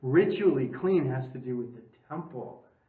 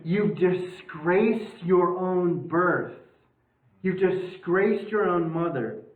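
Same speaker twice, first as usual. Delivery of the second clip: mock angry Saul; 3 semitones higher, 3 dB louder, slower than usual. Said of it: "So he's basically saying".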